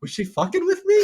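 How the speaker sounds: high, loud question breaking into laughter; laughing disbelief. Retold or imitated. Telling a friend about the dentist visit, laughing hard. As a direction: ask it while cracking up. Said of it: "And I was like".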